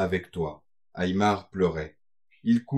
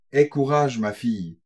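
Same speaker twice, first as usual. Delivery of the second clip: encouraging; 2 semitones higher than usual. Acted. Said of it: "répéta Léa".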